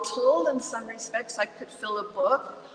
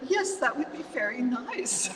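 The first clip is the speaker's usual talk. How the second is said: very calmly; 5 semitones higher, 4 dB quieter than usual. Retold or imitated. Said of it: "I wrote to her very calmly".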